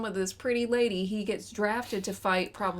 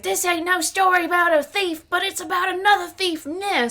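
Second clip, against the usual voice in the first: higher, louder gruff narrator voice; mock movie narrator; 9 semitones higher, 8 dB louder than usual. Mocking the movie's opening narrator, hammed-up gruff voice. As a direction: ham up the film's opening narration.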